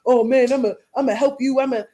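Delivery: a light, hammed-up mock of eager fake friends; mocking fake helpers. Mimicking people at her son's party offering help, lightly mocking. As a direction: parrot their empty promises, a bit fast. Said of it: "all of these people was acting like".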